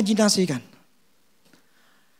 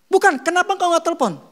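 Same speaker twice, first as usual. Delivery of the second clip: insistent question; 9 semitones higher than usual. Retold or imitated. Womack presses the late man.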